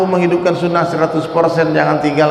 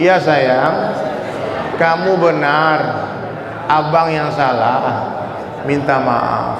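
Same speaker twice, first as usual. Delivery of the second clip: gentle apology; much slower than usual. Shown as a demonstration. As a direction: coax it out like a husband soothing his wife. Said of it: "Coba ikut-ikuti".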